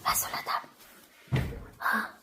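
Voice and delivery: hushed unvoiced whisper. Real, not acted. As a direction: whisper the order to hide. Whispering to hiding child.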